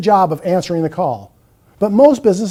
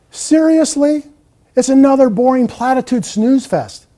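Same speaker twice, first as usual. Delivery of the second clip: high, disbelieving seriously; incredulous; 5 semitones higher than usual. Real, not acted. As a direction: scoff in disbelief. Mocking the hold message.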